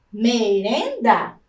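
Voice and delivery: Merenda split slowly as me-ren-da; syllable by syllable. Shown as a demonstration. Teacher to pupils, sounding out Merenda slowly syllable by syllable. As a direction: stretch out Merenda, one syllable at a time. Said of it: "A primeira sílaba é o me".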